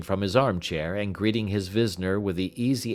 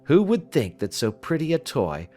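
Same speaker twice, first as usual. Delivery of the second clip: lightly raised, precise Holmes voice; a keen detective musing over a jewel; 5 semitones higher than usual. Acted. Holmes musing to Watson over the blue stone, lightly raised voice.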